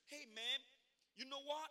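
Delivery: imitating African American accent. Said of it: "I tried to speak in her accent".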